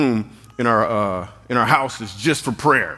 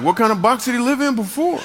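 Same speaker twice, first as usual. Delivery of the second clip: mock indignant question; 11 semitones higher than usual. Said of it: "I'm like".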